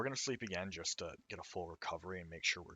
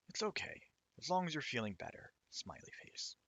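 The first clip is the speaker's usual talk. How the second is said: high cheerful voice; 6 semitones higher than usual. Acted.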